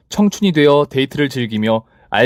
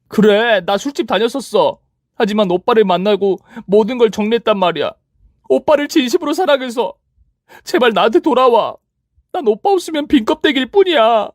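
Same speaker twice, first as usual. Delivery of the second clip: much higher, pleading shrill voice; begging ex girlfriend; 10 semitones higher than usual. Acted. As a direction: beg him desperately to come back. Ex begs him back. (높은 목소리로 애원하는 전 여친)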